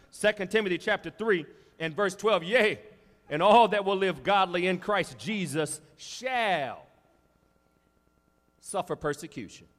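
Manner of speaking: slow, loud, weighty reading of the verse; solemn scripture reading. Acted. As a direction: read it out like a solemn proclamation. Reads scripture aloud, slow.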